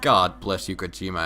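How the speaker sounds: ordinary delivery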